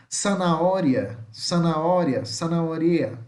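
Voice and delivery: "zanahoria" with an S sound for Z and silent H; careful repeated model of "zanahoria", starting with S. Shown as a demonstration. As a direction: say "zanahoria" as sa-na-O-ria. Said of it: "tem som de S".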